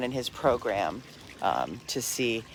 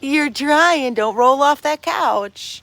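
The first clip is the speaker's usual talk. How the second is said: talking to a dog; 11 semitones higher, 9 dB louder, slower than usual. Real, not acted. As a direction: fuss over the puppy in a high voice.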